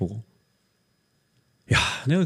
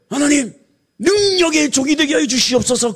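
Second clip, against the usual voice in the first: mock lofty prayer; 12 semitones higher, 3 dB louder than usual.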